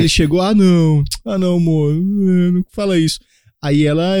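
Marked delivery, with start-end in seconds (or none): 0.4-3.2 mock-upset pleading; imitação de abalado. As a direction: imitate a partner starting to feel awful at the news. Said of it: "ele já começou a ficar mal". (imitando alguém abalado, quase choroso)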